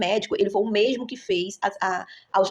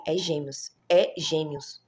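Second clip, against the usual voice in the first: a gentle, lower voice of God speaking; soft sweet voice; 3 semitones lower, much slower than usual. Retold or imitated. A mother retelling the divine voice, lightly voiced softly. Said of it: "mas uma voz suave".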